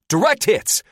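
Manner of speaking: high, loud triumphant shout. Acted. Gunner shouts as missiles strike, loud and triumphant. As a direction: yell out the hit. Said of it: "Athos shouts".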